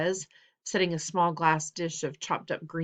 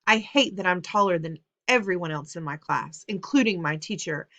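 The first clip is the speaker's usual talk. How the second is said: anguished rant; 2 semitones higher, 5 dB louder than usual. Acted. Son's emotional outburst continues.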